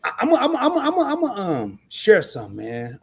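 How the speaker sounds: stammering build-up, pitched high like a Baptist pastor; preacher style. Real, not acted. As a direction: work up to it like a Southern preacher. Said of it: "talking like an old Southern Baptist pastor".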